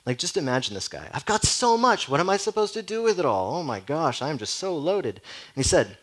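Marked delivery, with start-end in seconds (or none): 1.1-5.2 much higher, louder giddy boast to himself; hammed-up rich man crowing over his wealth; gloating rich man. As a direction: revel in his riches like a smug rich fool. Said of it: "gloating to himself".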